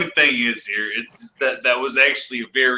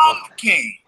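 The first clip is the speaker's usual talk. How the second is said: put-on childish boast; 7 semitones higher than usual. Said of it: "Black Metal Troy used to yell".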